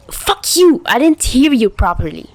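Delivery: high, loud flustered shout. Acted. Chuya shouting at Tachihara, flustered. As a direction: yell it to cover the blush. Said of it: "he shouted".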